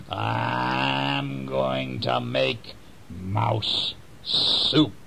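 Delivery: a lightly voiced sly weasel, slow. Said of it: "Said the weasel".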